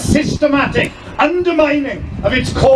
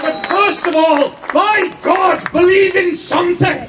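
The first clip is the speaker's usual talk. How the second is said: passionate; 4 semitones higher than usual. Real, not acted. Rallying call in speech.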